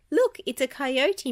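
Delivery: loud, high excited shout. A narrator's reading. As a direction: point it out to the others. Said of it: "Mickey shouted".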